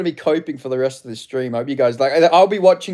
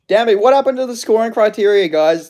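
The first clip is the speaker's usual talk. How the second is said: louder, higher indignant outburst; outraged; 6 semitones higher, 5 dB louder than usual. Real, not acted. Streamer ranting to chat about the judges' scoring, outraged and louder. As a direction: demand an answer, really fed up.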